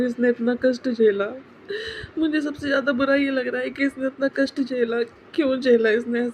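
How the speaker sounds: real grief, catching breath between phrases; tearful lament. Real, not acted. Mourning owner asking why her dog suffered, tearful lament. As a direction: plead tearfully for an answer.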